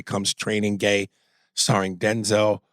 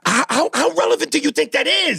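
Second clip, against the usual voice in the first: high, stammering angry question; real heated demand; exasperated challenge; 14 semitones higher than usual. Real, not acted. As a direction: challenge the point, incredulous. Challenges co-host in argument.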